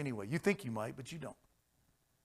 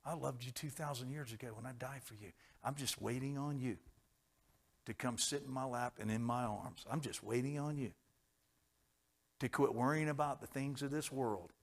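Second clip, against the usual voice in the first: tender sermon voice; 6 dB quieter than usual. Acted. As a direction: coax them close, tenderly. Quiet tender opening of sermon.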